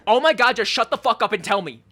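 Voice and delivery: loud, fed-up snap; mock exasperated outburst. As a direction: lose patience, hammed-up. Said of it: "it's just like".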